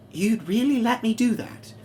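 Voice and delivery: can't believe her luck; shocked. Acted. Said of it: "Mavis is just shocked".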